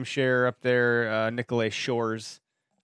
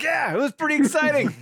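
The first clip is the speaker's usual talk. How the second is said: put-on kid's reply; 6 dB louder than usual. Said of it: "And I was like".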